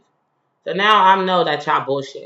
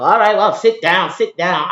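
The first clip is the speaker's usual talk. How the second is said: bossy order; 6 dB louder than usual. Retold or imitated. Guard ordering her to sit.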